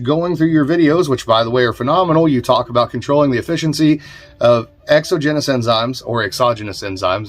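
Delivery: lifted read-aloud of a listener's question; reading viewer mail. Real, not acted. Host reading a viewer's note on enzymes, lifted read-out voice.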